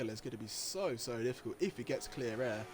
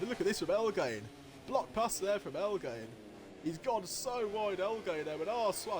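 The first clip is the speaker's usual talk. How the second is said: excited; 5 semitones higher than usual. Real, not acted. Close battle for sixth.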